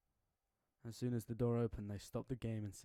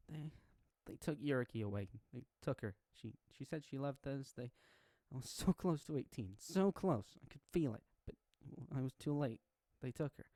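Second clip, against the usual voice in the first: holding back tears; 3 semitones higher than usual. Acted. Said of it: "while trying not to cry".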